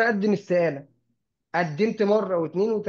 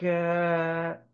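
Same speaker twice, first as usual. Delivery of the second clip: long drawn-out, hesitant filler; stalling for an answer; much slower than usual. Acted. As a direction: drag out a mock thinking noise, very slowly. Acts client's rep stumbling for name.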